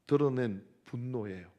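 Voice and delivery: ordinary talk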